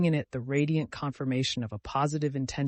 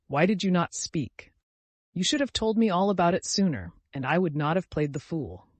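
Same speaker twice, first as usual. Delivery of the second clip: raised, louder remorseful reproach; despairing cry; 5 semitones higher, 4 dB louder than usual. A narrator's reading. Friend regretting he played the fool with Vasya, despairing. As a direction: cry out in dismay at your blunder. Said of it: "cried Arkady Ivanovich in genuine despair".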